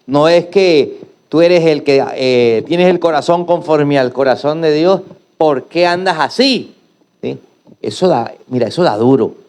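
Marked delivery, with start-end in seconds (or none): 0.1-6.7 mocking. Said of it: "se burlan diciendo".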